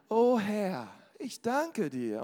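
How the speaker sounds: mock pious prayer voice, drawn out with swoops; verstellte Gebetsstimme. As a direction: imitate someone praying in a put-on voice, stretching the words. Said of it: "auf einmal ändert sich die ganze Stimme". (nachgeahmte salbungsvolle Gebetsstimme mit Höhen und Tiefen)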